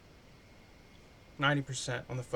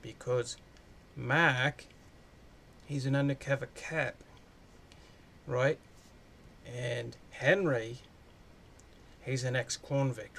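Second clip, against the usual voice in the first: put-on Australian accent. Reviewer retelling the plot in a mild Australian accent. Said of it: "I'm gonna give up my Australian".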